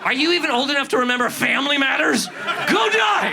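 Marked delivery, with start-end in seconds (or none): 2.3-3.3 much higher jeering Go die; hammed-up troll yell; mock hateful yell. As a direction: spit it at the kid. Adults tweeting at Greta.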